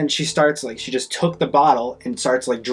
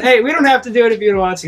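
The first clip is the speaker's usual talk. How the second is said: laughing reassurance; 10 semitones higher, 6 dB louder than usual. Retold or imitated.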